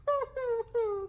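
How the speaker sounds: high hooting pretend sobs; mock boo-hoo crying. Teacher acts baby llama crying for mama, mock sobs. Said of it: "boo-hooing".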